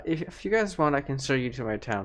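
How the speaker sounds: lightly voiced lady, a little high; townswoman character. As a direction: play a friendly local offering an introduction, lightly. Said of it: "the lady that you guys were freaking out to say".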